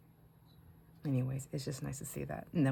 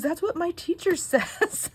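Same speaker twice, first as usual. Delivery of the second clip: imitating the grandson; 14 semitones higher, 7 dB louder, slower than usual. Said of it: "He goes".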